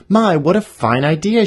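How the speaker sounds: high, loud mock sweetness; sarcastic shout. Furious bunny mocks the badger's advice, high loud shout. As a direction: bite back with sarcasm. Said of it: "she shouted".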